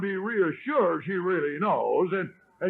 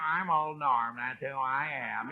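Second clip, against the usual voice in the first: softer, mocking echo of the husband; wife's mocking mimicry; 4 semitones lower, 3 dB quieter than usual. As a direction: mimic his boast back at him, quietly. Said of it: "how they mimic it".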